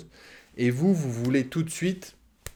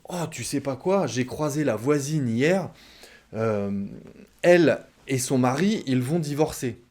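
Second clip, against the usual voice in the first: gossipy excitement. Retold or imitated. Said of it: "votre chérie vous dit".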